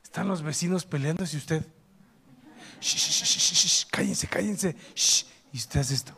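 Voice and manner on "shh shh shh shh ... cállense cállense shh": repeated sharp shushes and whispered words; whispered shushing to eavesdrop; urgent shushing. Acted. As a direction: hush the others in a whisper so you can listen in. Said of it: "hacemos esto".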